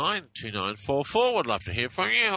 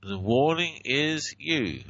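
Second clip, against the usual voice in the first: slow; 2 semitones higher, slower than usual. Shown as a demonstration. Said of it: "And this one".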